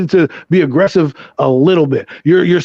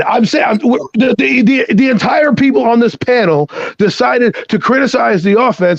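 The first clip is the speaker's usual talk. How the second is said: higher-pitched, indignant protest; real heated objection, pitched up; mad; 4 semitones higher than usual. Real, not acted. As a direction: stammer into an exasperated self-defence. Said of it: "You're mad".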